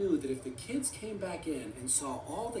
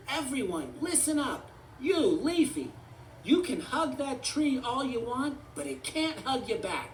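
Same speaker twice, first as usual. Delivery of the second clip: raised, high rallying voice; higher, firm cartoon speech; commanding Forky; 6 semitones higher, 4 dB louder than usual. A narrator's reading. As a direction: call the room to order in a high toy voice. Forky addresses all the toys.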